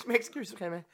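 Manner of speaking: trying not to laugh; stifled giggles. Real, not acted. Apologizing while giggling.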